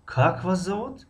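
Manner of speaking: high-pitched question leaning on Как; stress on the first word. Shown as a demonstration. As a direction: start high on a long Как. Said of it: "аввали ҷумларо мо баланд талаффуз".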